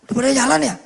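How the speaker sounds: a hint of a kind mother asking; mother's voice. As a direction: ask like a gentle mum. Mother asks the boy kindly.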